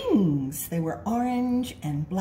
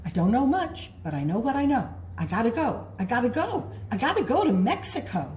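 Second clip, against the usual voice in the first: bug voice; 4 semitones higher, faster than usual. Acted. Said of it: "and said".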